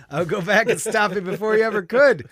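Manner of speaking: emphatic loud. Real, not acted. Declares he'd stop Hitler.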